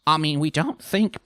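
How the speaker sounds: hesitant, uneasy excuse; awkward. A narrator's reading. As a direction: fumble for words under pressure. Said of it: "began Beryl awkwardly".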